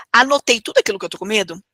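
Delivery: whispered aside to herself. Shown as a demonstration. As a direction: drop to a whisper as you check it off. Checking a list step.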